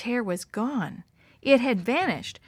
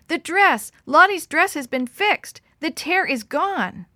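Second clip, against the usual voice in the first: higher, louder rush of joyful news; the last words slowed and amazed; excited news; 7 semitones higher, 6 dB louder than usual. A narrator's reading. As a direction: burst in shouting the good news. Girl runs in with news.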